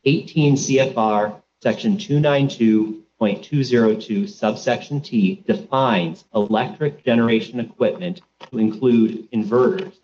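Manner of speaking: slow, deliberate reading of a citation. Real, not acted. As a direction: spell out the section number slowly for the court. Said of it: "I'll say it slowly".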